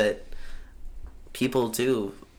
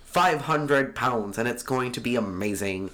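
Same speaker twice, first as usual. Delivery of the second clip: 1920s radio broadcaster. Pretend. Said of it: "You sound like a radio broadcaster from nineteen twenty".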